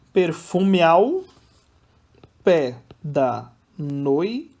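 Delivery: very slow, drawn-out scansion, each beat loud; syllable by syllable. Shown as a demonstration. Teacher showing students how vowels join in scansion, syllable by syllable. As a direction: stretch and separate each syllable, running joined vowels together. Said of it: "Vogais iguais sempre vou juntar".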